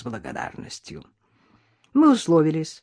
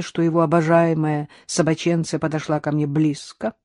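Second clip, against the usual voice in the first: plain reading voice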